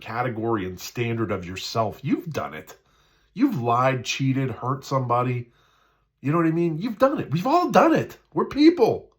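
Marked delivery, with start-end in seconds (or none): 3.3-9.1 rising preaching shout. Real, not acted. Preaching, building to loud peak.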